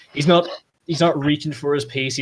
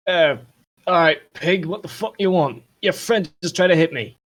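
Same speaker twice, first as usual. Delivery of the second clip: loud, higher-pitched indignant challenge; confused, confrontational; 6 semitones higher, 6 dB louder than usual. Acted. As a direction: push back at the cop, affronted. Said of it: "looks at you rather confused".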